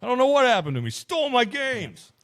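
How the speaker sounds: high, mock-wailing complaint, stretched out at the end; campfire old-timer. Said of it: "sitting around a campfire eating baked beans".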